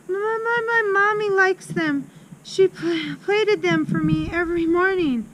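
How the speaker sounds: put-on high-pitched, stammering little girl; frightened stutter. A narrator's reading. Terrified Amanda defends pigtails to headmistress, stuttering. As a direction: stumble on first words in a high, scared voice. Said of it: "managed to stutter".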